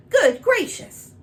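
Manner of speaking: very high, loud, slow gasp of surprise; startled exclamation. Acted. King springing up, exclaiming very high and loud. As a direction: burst out in sudden shock, high and loud. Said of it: "he sprang to his feet".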